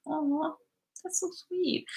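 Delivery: soft, high-pitched aww; touched coo. Real, not acted. Touched by a viewer's kind comment.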